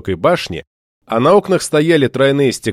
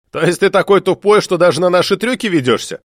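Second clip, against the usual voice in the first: higher, sneering question; mocking; 5 semitones higher than usual. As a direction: needle him with scorn. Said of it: "С издёвкой уточнили".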